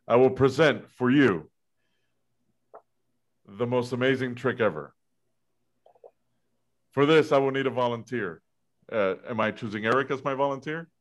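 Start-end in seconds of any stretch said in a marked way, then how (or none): 0.1-8.4 Houdini magician patter. Acted. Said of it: "you gotta act like Houdini".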